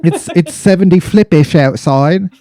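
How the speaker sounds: bad British accent, mocking the slang; a fake Brit coining a silly word. Podcaster mocking British heat slang in a bad British accent. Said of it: "They call it something stupid".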